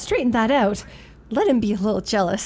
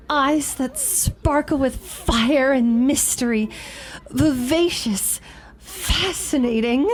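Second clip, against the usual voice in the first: dreamy quoting; slower than usual. Retold or imitated. Quotes an admirer's flattering words.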